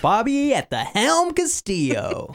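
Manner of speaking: lightly voiced ship captain; a hint of a grand captain intro. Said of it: "This is your captain's thing".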